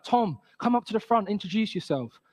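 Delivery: lightly imitated teacher, name pitched high; a hint of a teacher's instruction; teacher calling out. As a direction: mimic a teacher summoning a pupil, starting high. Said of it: "the teacher comes in, she's like".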